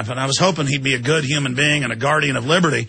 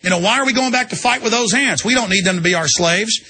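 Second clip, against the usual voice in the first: high, lightly voiced grasshopper henchman; 6 semitones higher than usual. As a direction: play a greedy movie grasshopper, pitched up. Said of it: "They go".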